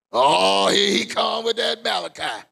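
imitating a grumbling churchgoer, loud; hammed-up complaint from the pews; mock grumbling churchgoer. Preacher mocking his congregation's groan.

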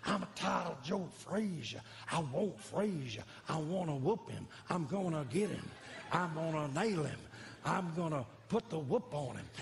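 a hint of Ali boasting, slow in places; lightly voiced boxer bragging; Muhammad Ali. Pastor doing Ali for Ali himself, light boast. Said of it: "I did that for Muhammad Ali".

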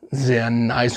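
"sehr nice" with the emphasis on "nice", said casually; stress on nice. Shown as a demonstration. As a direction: lean on "nice" in "sehr nice", giving it the weight of the phrase. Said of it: "da liegt die Betonung auf nice".

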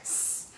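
"X" slowly, as "ek", then sss; slowed-down pronunciation. Shown as a demonstration. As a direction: take "X" in two separate parts, k then hiss. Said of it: "thì nói chậm thôi". ("X" nói chậm, tách K và S)

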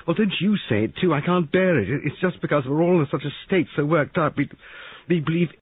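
very high, loud and agitated; overwrought protest. Acted. Molly denying suspicions of her husband, overwrought. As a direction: burst out, unable to bear it. Molly upset, rejecting the suggestion.

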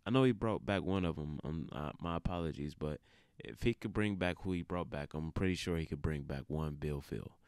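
monotone. Real, not acted. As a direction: drag it out flat and sleepy. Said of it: "I apologize for my monotone tone".

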